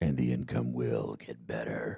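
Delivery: very low, slow, soft, hushed, gravelly narrator voice. Speaker adds a line in a Morgan Freeman voice. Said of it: "Sounded like Morgan Freeman to me".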